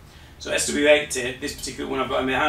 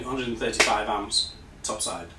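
strained, failing voice; losing voice; 3 semitones lower, 5 dB quieter than usual. Real, not acted. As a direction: voice fading, going hoarse. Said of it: "voice again".

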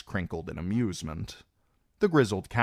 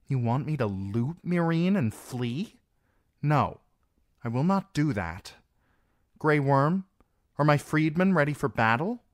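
put-on firm young queen; 8 semitones higher, 4 dB louder than usual. Daenerys refuses, asks Grey Worm.

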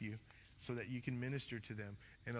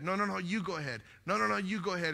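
quick, higher, louder insisting; polite back-and-forth insisting; 6 semitones higher, 7 dB louder, faster than usual. Retold or imitated. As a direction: hurriedly hand the turn back, acted out. Acting out a polite phone standoff.

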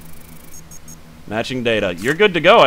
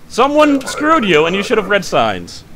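mock squeaky scold; 7 semitones higher, 4 dB louder than usual. Scolding a traveler mockingly.

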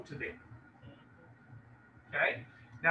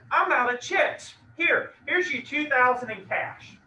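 lightly voiced client, higher and slow; a hint of a casual homeowner offering cash; 4 semitones higher, 3 dB louder than usual. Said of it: "she says".

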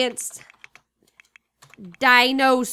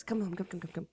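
coaxing; 6 semitones lower, 11 dB quieter, faster than usual. Real, not acted. Calling sim softly.

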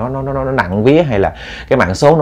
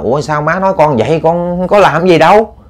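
higher-pitched, bewildered daughter's protest; puzzled protest; 5 semitones higher than usual. Acted. Daughter answers mother's sudden scolding, puzzled protest. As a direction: protest innocence in a raised pitch.

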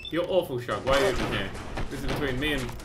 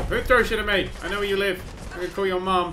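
loud, high indignant yell; mock angry shout; 7 semitones higher, 7 dB louder than usual. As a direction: yell a silly threat. Yelling at an enemy thrower.

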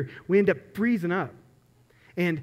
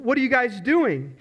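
mild mock yell, pitched higher; retold yelling; 4 semitones higher than usual. Zookeeper to hawks that won't leave, mildly mock-yelling. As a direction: imitate exasperated yelling without much volume. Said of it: "He starts yelling at him".

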